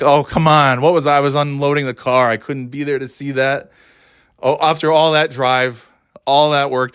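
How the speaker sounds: mock frustration at missing out; retold exasperation; frustrated groan.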